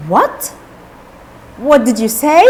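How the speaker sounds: acted surprised question, rising at the end; lightly played startled master, voice lifting on each question; mild surprise. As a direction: ask in understated disbelief. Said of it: "said in a surprise".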